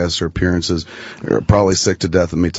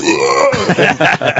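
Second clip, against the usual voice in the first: mock vomiting; 6 semitones higher than usual. Goalie skates over to puke at the boards, mock retching. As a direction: mimic a goalie throwing up. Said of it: "he would be puking his guts up".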